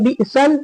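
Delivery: "बिसल" closed on the laam, bi'sal; common mistake. Retold or imitated. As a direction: end "बिसल" firmly on an l. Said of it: "लोग हमेशा ये गलती करते हैं".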